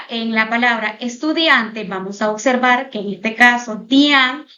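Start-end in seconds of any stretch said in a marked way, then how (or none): 3.8-4.5 dian set apart and stressed. Shown as a demonstration. Teacher shows students the stressed dian. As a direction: hit the syllable dian alone. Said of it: "dian es la sílaba tónica".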